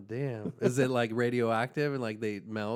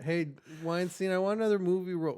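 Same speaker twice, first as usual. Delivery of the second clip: actress voice; 6 semitones higher than usual. Acted. Acted exchange, actress voice.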